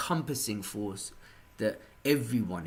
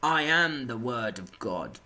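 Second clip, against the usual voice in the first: proclaiming zealot; 4 dB louder, slower than usual. Retold or imitated. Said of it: "comes to me and is like".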